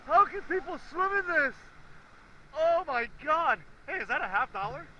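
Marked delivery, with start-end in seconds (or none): 0.1-3.6 louder, slow, from the cold; in ice cold water. Real, not acted. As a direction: gasp it out, freezing.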